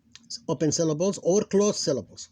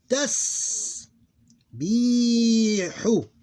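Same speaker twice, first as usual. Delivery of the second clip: higher, measured syllables with short pauses; almost normal reading speed; 7 semitones higher, much slower than usual. Shown as a demonstration. Teacher demonstrating the word for learners, measured syllable by syllable. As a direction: read it syllable by syllable, lingering on the s and long vowel. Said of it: "almost with normal speed".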